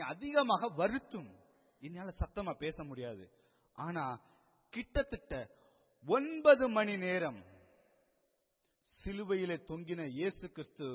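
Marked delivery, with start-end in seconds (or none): 6.1-7.4 "ஒன்பது மணி நேரம்" loud, high and stretched slow; drawn-out emphasis. Real, not acted. Preacher stressing the hours on the cross, "ஒன்பது மணி நேரம்" loud and slow. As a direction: swell loudly on "ஒன்பது", holding it long.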